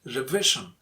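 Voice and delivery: "Revision" with a prominent VI; stress on VI. Shown as a demonstration. Teacher models "Revision" for learners, stress on VI. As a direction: lean on the middle of "Revision". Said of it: "you have to make it louder".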